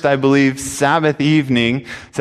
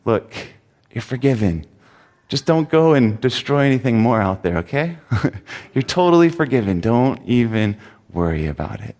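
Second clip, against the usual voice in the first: gentle reassurance; 3 semitones lower than usual. Retold or imitated. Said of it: "No, I said to him".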